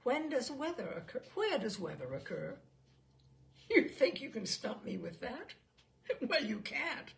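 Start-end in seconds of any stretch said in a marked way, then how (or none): 3.7-7.1 laughing boast. Acted. Expert laughs off the challenge.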